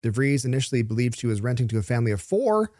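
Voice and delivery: measured newsreader delivery; presenter reading copy aloud; news read. Real, not acted. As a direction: read the story out with deliberate pauses. Host reads out the news story.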